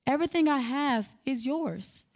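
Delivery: a father calming his jealous son, gently; calm, gentle. Retold or imitated. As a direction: reassure him gently. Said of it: "in a calm, gentle manner".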